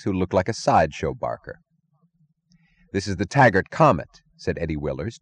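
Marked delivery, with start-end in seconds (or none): 2.9-4.2 choked-up voice; choking on the words. Acted.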